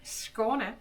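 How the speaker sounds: a lightly done Skåne dialect, slow and halting. Shown as a demonstration. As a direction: attempt a bad Skåne dialect with hesitations. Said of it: "hard to speak in this dialect".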